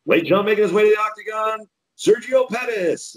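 booming high ring announcer call. Retold or imitated. Announcer calling a fighter into the octagon.

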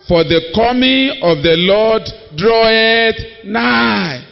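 slow, drawn-out Bible reading; solemn scripture reading. Acted. Preacher reading James to the congregation, slow and solemn. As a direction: intone the verse slowly.

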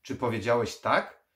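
loud, high, incredulous question; surprised. A narrator's reading. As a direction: check you really heard that yes. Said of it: "Gormley był zdziwiony".

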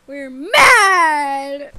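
mad shout. Acted. Characters chant being mad.

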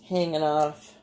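Bay City long A in "hanging"; natural Bay City accent slipping out. Real, not acted. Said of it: "That's my Bay City accent".

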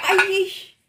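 sharp high yelp of pain; hot food yelp. Real, not acted. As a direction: yelp as the heat hits. Tasting hot pizza.

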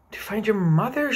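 coaxing. Acted. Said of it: "she coaxed".

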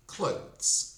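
"clothes" as one drawn-out syllable, voiced th into z; correct CLOTHES. Shown as a demonstration. Teacher modelling the right pronunciation, "clothes" in one syllable. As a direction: say "clothes" slowly in a single syllable. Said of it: "правна вимова, це має бути".

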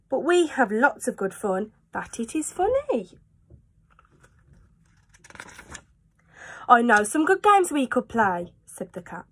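lively storybook read-aloud; animated picture-book reading; reading to children. A narrator's reading. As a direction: read it like bedtime for little ones. Reads Cat in the Hat aloud.

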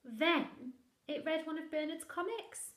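slow, high, loud telling; dramatic narration. A narrator's reading. Narrating the monster's mischief, dramatic. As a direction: savour each mischief.

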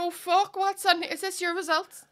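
lightly hammed-up ma reacting to an envelope; playing her ma. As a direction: act out a mum's curious fluster. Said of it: "I'll be my ma".

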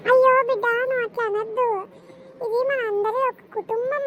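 loud wailing plea; tearful plea. Acted. Mother wails at her daughter not to speak so, loud and tearful. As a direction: cry out to keep the peace. Mother pleads, cry heard.

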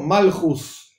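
"malchus" ending in s instead of t. Shown as a demonstration. Teacher gives the Ashkenazi form, final S. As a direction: finish "malchus" on an s. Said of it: "Por eso decimos".

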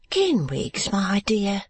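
indignant wife. A narrator's reading. Wife rebukes her husband.

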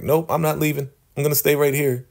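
put-on high, stubborn young woman's refusal; defiant Ruth. Ruth refusing to leave the kitchen, high defiant voice. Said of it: "Ruth was like".

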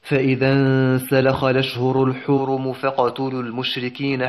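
slow chanted tajweed recitation; Quran recitation. Shown as a demonstration. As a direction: recite the verse in measured, melodic chant. Teacher recites next verse.

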